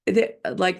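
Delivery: ordinary delivery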